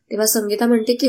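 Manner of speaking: ordinary delivery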